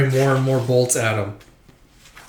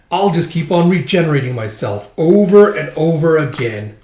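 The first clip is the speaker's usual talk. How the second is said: emphatic villain boast, building louder; taunting monster; 2 semitones higher, 4 dB louder than usual. Acted. Monster taunts swordsman during the fight, gloating boast. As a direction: boast tauntingly, swelling toward the end.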